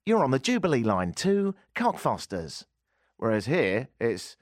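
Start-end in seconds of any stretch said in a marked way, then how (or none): 0.1-2.6 lively, higher-pitched train announcer; upbeat Tube announcement. Acted. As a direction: announce the line with a bright lift. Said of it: "announcements are upbeat".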